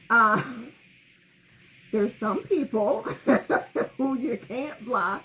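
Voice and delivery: words broken up by giggles, slowed; laughing too hard to finish the point; laughing through it. Real, not acted. Speaker cracking up mid-sentence, laughing her words out. Let me repeat.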